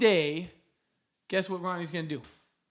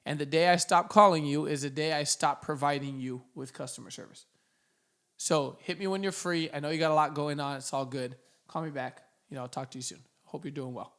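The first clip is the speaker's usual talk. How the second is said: lighthearted, no frustration. Shown as a demonstration. Recruiter leaving a follow-up voicemail, lighthearted and unfrustrated. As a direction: follow up with no irritation and a slight sense of humor. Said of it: "Notice no frustration. You can't hear any frustration".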